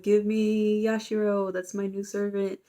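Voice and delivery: lightly voiced, drawn-out mermaid demand. Mermaid claims her new servant from Hanako, drawn-out demand. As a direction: stretch it out like a spooky creature claiming someone.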